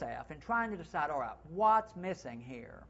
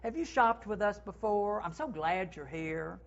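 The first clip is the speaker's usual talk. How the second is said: higher, bright, glad welcome; welcoming greeting; 4 semitones higher than usual. Shown as a demonstration. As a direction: make the guest feel wanted. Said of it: "What about if we get to".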